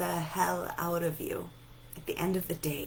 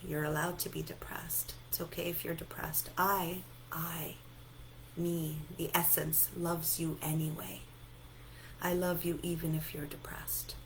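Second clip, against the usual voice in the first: self-soothing; 7 dB quieter than usual. Shown as a demonstration. Speaking tenderly to own depression.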